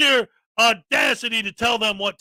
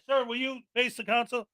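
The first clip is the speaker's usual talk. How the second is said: much softer courteous ask; polite request; 7 dB quieter than usual. Retold or imitated. Officials asking a speaker to turn around, quietly. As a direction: ask it softly, no fuss. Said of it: "these guys back here".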